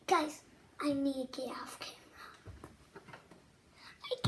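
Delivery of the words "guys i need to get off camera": fast, much softer whisper; hurried whisper. Acted. Fast mock-scared whisper, to the kids.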